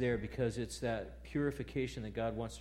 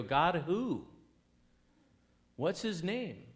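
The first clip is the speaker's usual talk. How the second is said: incredulous; 7 semitones higher, 6 dB louder, slower than usual. Retold or imitated. Israelites questioning Moses, acted.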